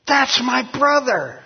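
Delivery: high, slow exclaimed recognition; a proud, drawn-out cry of recognition; excited shout-out. Retold or imitated. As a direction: call it out like you just spotted family on TV. Half-brother spots him on TV.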